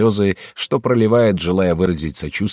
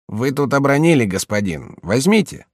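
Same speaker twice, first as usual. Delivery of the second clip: голос слуги; 6 semitones higher than usual. Acted. Слуга подаёт крышку.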